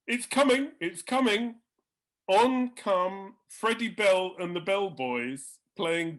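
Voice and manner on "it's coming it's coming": higher, louder excited whisper-shout; eager anticipation. Retold or imitated. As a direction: urge him to watch. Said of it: "He says".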